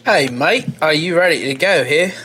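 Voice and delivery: lightly put-on English accent; amateur British accent attempt. Shown as a demonstration. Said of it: "hit me with your best English accent".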